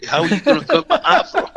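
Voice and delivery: quick, high, amused outrage over the afro; laughing protest. Retold or imitated. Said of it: "And I said".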